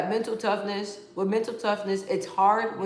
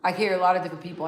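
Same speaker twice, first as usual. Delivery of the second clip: quick repeat; much faster than usual. Real, not acted. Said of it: "repeats the statement".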